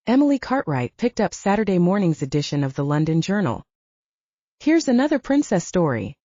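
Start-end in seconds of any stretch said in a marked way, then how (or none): 4.6-6.1 exclaimed. A narrator's reading. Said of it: "she exclaimed".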